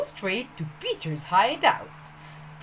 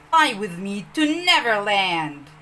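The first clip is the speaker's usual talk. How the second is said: a lightly voiced eager boy, a bit louder; urging; 2 semitones lower, 6 dB louder than usual. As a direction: urge them on, boyish and keen. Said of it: "Peter urged".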